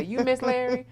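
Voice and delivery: high little-boy voice, lightly imitated; voicing a caring young child; five-year-old son. Host quoting guest's son comforting his mother, high child voice. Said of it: "to look at you and say".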